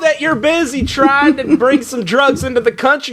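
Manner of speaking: a hint of a Dust Bowl Southern twang; Southern accent. Border inspector scolding the Easter Bunny in a light Southern accent. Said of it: "why I have this accent in California".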